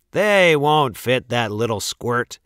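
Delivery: scornful, lightly voiced brothers; sneering. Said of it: "sneered his brothers".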